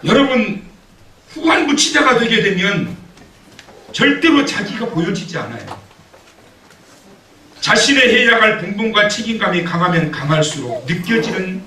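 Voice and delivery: high, loud preacher's voice; fervent preaching. Acted. Pastor preaches passionately to the congregation, high and loud.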